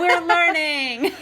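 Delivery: slow, laughing through the words. Real, not acted. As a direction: chuckle it out slowly.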